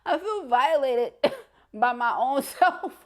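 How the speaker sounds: high, slow, through laughter; giggling at yourself; laughing. Real, not acted. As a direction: say it while cracking up. Laughing at own mistake.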